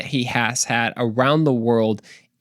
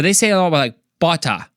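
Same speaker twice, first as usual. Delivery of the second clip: Australian accent; 4 semitones higher, faster than usual. Shown as a demonstration. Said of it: "working my Australian accent".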